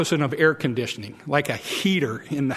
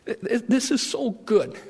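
delighted Jonah; 6 semitones higher than usual. Acted. Jonah savoring shade again.

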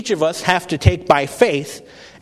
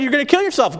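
retold angry shout; 10 semitones higher, faster than usual. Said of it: "He was so angry".

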